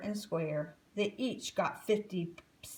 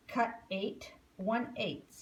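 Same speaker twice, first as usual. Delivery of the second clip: grumbled. Acted. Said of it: "he grumbled".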